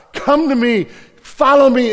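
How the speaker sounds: calling out. Acted. Jesus calling loudly.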